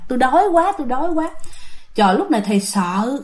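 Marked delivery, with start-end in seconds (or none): 0.1-1.3 lightly voiced breathy ghost moan, a little higher. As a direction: moan it on the breath like a hungry spirit. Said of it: "Nói vậy đó các bạn".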